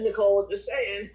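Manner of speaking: high laughing tease; real laugh, teasing praise. Real, not acted. Host cheering Nicole on through laughter.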